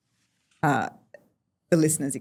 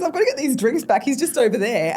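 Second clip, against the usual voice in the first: awkward exit; 7 semitones higher, 5 dB louder than usual. Retold or imitated. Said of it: "Got, he".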